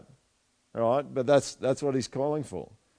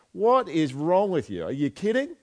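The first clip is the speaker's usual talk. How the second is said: exasperated disbelief; 5 semitones higher, 3 dB louder than usual. Retold or imitated. A friend confronting the servant in stunned outrage. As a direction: confront him, stunned by his nerve. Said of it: "you almost wanna go up to him and go".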